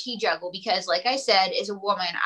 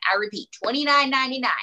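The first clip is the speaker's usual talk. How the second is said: infomercial voice; 2 semitones higher, faster than usual. Pretend. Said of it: "I sound like an infomercial".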